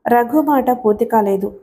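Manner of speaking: ordinary delivery, nothing marked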